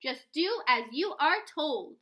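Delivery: slow, heavy, commanding bark; barked order. Acted. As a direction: lay down the law, word by word. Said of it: "barked Mister Payne".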